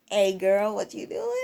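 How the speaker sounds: put-on smooth pickup line, trailing up into a mumble; mock smooth come-on; smooth talker. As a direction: imitate a guy hitting on a girl. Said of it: "always try and talk smooth like this".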